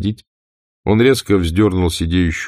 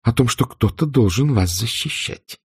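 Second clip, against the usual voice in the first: cold hatred; 7 semitones higher than usual. A narrator's reading. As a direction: spit each accusation coldly. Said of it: "в голосе её звучала холодная ненависть".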